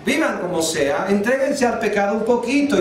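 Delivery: imagined lenient God. Acted. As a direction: wave it away in mock leniency. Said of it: "Dios va a decir".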